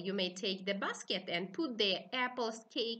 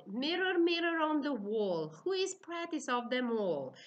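queen's rhyme; 3 semitones higher than usual. Shown as a demonstration. Teacher showing young learners the queen's mirror rhyme, lightly voiced. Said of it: "repetitive text".

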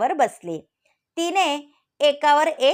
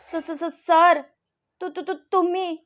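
stuttering, higher, nervous greeting; scared stammer; 5 semitones higher than usual. A narrator's reading. Natasha caught off guard by her professor, stammering in fear. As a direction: trip over the first sounds in fright. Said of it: "Natasha घाबरली होती".

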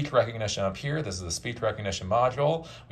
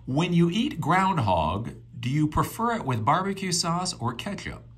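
addressing voice assistant; 8 semitones higher than usual. Real, not acted. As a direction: enunciate it for speech recognition, pitched up. Dictates question to voice assistant.

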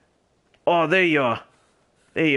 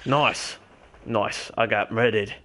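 put-on gamer holding a posh English RP accent. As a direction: stay in a lightly done British RP voice. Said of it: "different accent for my R P character".

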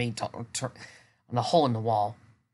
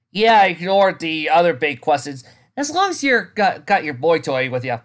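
teasing; 4 semitones higher, 8 dB louder than usual. Acted. Spike voiced, teasing.

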